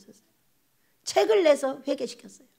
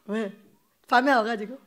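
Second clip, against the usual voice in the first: ordinary talk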